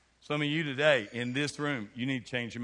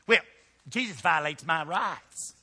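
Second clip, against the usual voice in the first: mock complainer; 3 semitones higher, 5 dB louder, slower than usual. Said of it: "what I'm up against".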